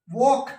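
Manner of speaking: वॉक with a round o, like wok; correct vowel. Shown as a demonstration. Teacher correcting students, round o in वॉक. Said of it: "वॉक नहीं".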